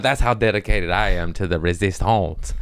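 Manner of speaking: "resistance" said "ree-zis-tonce", Louisiana style. Shown as a demonstration. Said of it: "That's how you say it. It's from Louisiana".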